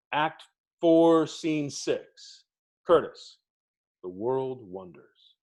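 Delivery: imitating the professor, slowing right down on "the world wonders"; dry, deliberate rebuke; mentor's chew out. To the late stage manager, a slow dry rebuke. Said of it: "That's, that was my chew out".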